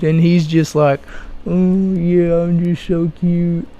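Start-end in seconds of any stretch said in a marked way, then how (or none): 1.5-3.7 lightly put-on simpering voice; a hint of mocking baby talk; mock bashful cutie. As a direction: play at being adorable, trailing softer. Imitates him reacting to the fawning.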